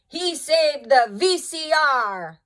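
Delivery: proud and amazed; delighted Father. A narrator's reading. Father thrilled the VCR was saved. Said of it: "cried Father".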